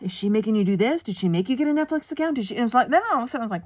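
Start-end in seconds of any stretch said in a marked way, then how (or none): 0.0-2.5 accusing. Retold or imitated. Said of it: "then I heard this".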